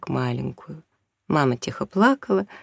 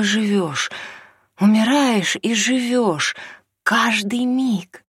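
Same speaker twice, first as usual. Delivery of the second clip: passionate rapture; 7 semitones higher, 4 dB louder than usual. Acted. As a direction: pour out the passion. Mother ecstatic about new love.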